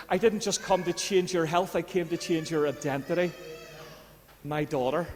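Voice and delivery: gently name her as his own; tender Jesus voice. Retold or imitated. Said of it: "Jesus goes".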